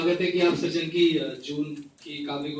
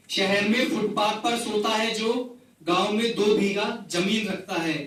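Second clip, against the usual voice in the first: measured, repeating recital of a poem; poetry recital. Acted. Poet reciting a rain poem to the gathering, measured recital. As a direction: recite each line twice, savouring it.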